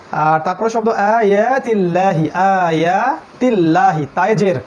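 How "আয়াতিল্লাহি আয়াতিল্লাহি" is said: আয়াতিল্লাহি very slow, with a light, thin ল. Shown as a demonstration. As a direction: draw out আয়াতিল্লাহি with a clear, thin ল. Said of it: "তিল্লা এটা পড়লাম".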